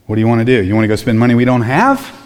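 mock incredulous question climbing at the end; snippy, sarcastic. Disciples snapping back at Jesus over money, snippy and sarcastic. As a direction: act out a snippy, sarcastic challenge. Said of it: "They get a little snippy and sarcastic with Jesus".

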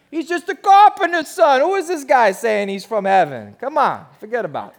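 hammed-up Jersey accent, loud and high, then easing down; dismissive mock Jersey accent. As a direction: scoff like a Jersey local. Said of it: "This is my Jersey accent".

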